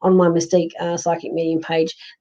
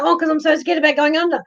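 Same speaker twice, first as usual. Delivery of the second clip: whiny scared self; 10 semitones higher than usual. Retold or imitated. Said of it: "And I go".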